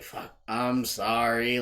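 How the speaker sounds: slow, drawn-out apology; slow, subdued sorry; mock consoling apology. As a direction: imitate a buddy trying to console her. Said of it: "trying to console her".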